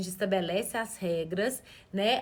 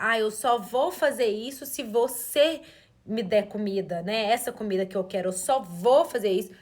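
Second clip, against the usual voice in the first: imitating bargaining child; 4 dB louder than usual. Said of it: "ela tentou passar".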